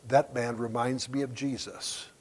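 put-on slow, measured Tennessee accent. Preacher praises the man who hosted him, slow Tennessee accent. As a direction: draw it out softly in a Tennessee accent. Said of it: "with this Tennessee accent".

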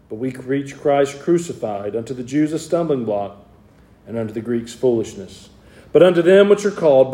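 measured, solemn Bible reading; scripture reading. Acted. Preacher reading Corinthians to his church, solemn. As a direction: read the verses with weight.

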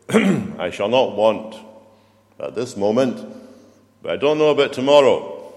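mock doubtful psalmist. Preacher mocks what David doesn't say, nervous and hedging. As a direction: play a psalmist who hedges his trust. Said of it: "David doesn't say".

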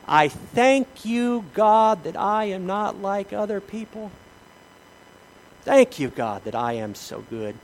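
slow, drawn-out smug thanks to God; self-satisfied Pharisee prayer. Retold or imitated. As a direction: gloat while pretending to give thanks. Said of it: "He says".

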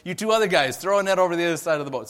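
fast mock-sarcastic order from the boat; spiteful sarcastic order. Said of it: "almost in spite".

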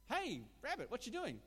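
high, loud jokey wolf greeting; a wolf calling out to the rabbit, pitched high. Acted. Joke, second wolf greets rabbit.

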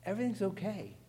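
Everything's okay with Everything's lifted high; lifted repeat. Shown as a demonstration.

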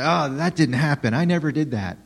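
mock indignant denial, lightly protesting; mildly indignant. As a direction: act out a touch of offended innocence. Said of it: "you either get indignant".

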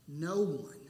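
NO ONE said as its own firm phrase; emphatic. Shown as a demonstration. Pastor showing how emphatic the Greek is, emphatic. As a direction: hit NO hard in "No one", falling after. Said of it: "how emphatic in the Greek".

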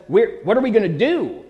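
a servant panicking at the sight of an army, mild alarm; panicked servant. Retold or imitated. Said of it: "And he panics".

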